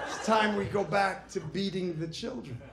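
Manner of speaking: rally the crowd like a politician; mock politician.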